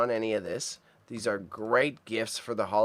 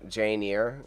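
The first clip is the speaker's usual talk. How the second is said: put-on a lighter French accent on the title; half-French "Jane Eyre", eer at the end. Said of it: "I went too much with the French accent".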